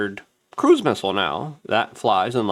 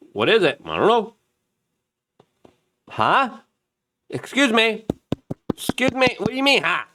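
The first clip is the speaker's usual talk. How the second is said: higher, baffled bewildered voices; mock confusion; 11 semitones higher than usual. Everyone confused about the drones, higher mock bafflement. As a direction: act totally lost and incredulous. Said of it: "everyone's like".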